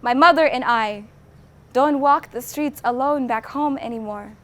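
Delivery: measured closing lines with weighty pauses; solemn poem ending. Acted. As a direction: let the last verse land, subdued after the climax. Poem's closing quote after climax.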